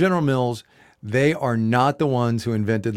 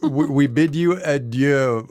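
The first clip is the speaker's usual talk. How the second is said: mock French; 3 semitones higher, slower than usual. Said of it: "That was French".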